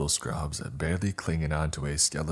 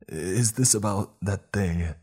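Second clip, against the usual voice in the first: higher, louder, rushing the denial; panicked pleading; 4 semitones higher, 4 dB louder than usual. A narrator's reading. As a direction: plead your innocence desperately.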